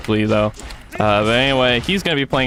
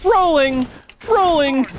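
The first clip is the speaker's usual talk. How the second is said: Annie's rolling voice line; 13 semitones higher, slower than usual. Retold or imitated. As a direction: chant it like the meme voice line. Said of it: "every voice line she had was".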